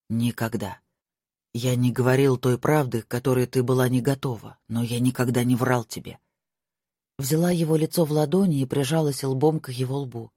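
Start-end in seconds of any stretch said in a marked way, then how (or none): 0.1-6.2 lightly voiced young lord, lower; a hint of a worried lover; lower male voice. Marko voiced by narrator.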